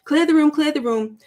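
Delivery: high, loud clear-the-room command; urgent order. Retold or imitated. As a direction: hurry everyone out in a fluster. Lady Danbury orders everyone out.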